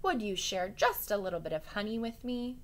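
high, loud begging call up the tree; shouted plea. Acted. Rabbit shouting up to the bear in the tree, pleading. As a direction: shout up a plea, stretching please. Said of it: "Breyer Rabbit shouted".

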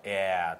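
「えー」を大きくはっきり伸ばして; 口を開いて長く言う; 母音の見本. Shown as a demonstration. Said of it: "って音とかっていうのは". (大きめに伸ばした「えー」)

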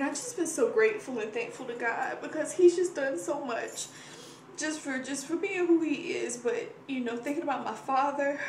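moved to tears remembering father's healing; overwhelmed, near tears. Real, not acted. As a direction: thank God as real emotion cracks the voice. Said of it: "a little overwhelmed today".

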